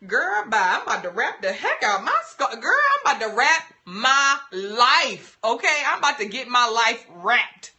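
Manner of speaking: put-on mildly theatrical girlfriend-style declaration; sassy mock quote. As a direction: play up the sass, stretching "my life". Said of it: "and being like".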